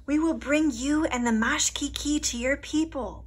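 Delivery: lightly voiced old woman, hushed; a hint of a kind old woman whispering. A narrator's reading. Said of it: "the old woman whispered".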